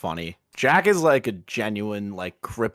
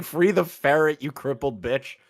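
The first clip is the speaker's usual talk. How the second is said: mock quote tweet; 6 semitones higher than usual. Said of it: "I was about to be like".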